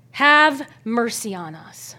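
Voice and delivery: slow, breathless whispered plea for mercy. Retold or imitated. Lepers begging Jesus for mercy, whispered plea. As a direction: hush it like a desperate beggar. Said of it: "they're crying out to him".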